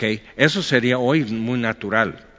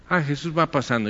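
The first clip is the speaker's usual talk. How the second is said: quick aside; 4 semitones higher, faster than usual. Retold or imitated. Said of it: "ahí dicen".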